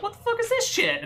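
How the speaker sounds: squeaky high kobold voice; a little creature grumbling in disgust. Acted. Kobold voiced rummaging camp.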